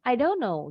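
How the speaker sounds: don't know linked as "dono"; quick don't. Shown as a demonstration. Teacher comparing it to comedian's name, don't know as "dono". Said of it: "Don't-nya cepat bacanya".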